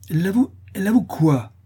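high, loud, alarmed question; half-frightened cry. A narrator's reading. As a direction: demand an answer, half afraid to hear it. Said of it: "s'écria madame Dubreuil à demi effrayée de l'aveu". (cri à demi effrayé)

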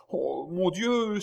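high, loud, drawn-out cry; agitated exclamation. A narrator's reading. Baron hearing the maid's question, crying out in agitation. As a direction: exclaim it slowly, somewhat shaken. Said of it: "s'écria le baron, un peu ému".

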